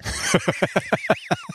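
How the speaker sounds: schrilles, hohes Lachen; hohes Auflachen. Real, not acted. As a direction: lache laut auf. Lacht laut beim Krugstemmen. (hohes, lautes Lachen)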